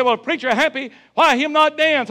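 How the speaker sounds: put-on high, loud accented shout; African man's challenge. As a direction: shout it back like the big African man. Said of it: "He said".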